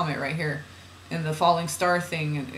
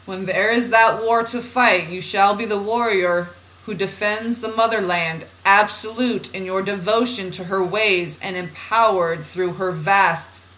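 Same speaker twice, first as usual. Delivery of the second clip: measured, deliberate spiritual reading; oracle reading; 2 semitones higher, 4 dB louder, slower than usual. Acted. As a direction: read it out as solemn guidance. Reads channeled guidance aloud.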